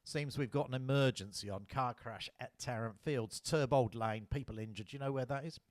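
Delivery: English inspector briefing her constable on the crash; clipped English accent. Retold or imitated. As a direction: keep the English inspector's briskness. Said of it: "in a clipped English accent".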